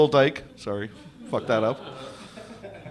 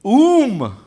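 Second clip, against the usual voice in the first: botched backwards moo; drawn-out "Oom", rising then falling; fumbled cow impression; Adam the cow; 3 semitones higher than usual. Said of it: "my impression of Adam the cow".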